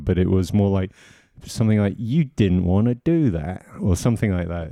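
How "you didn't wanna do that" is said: Michael Caine impression. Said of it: "a line like De Niro".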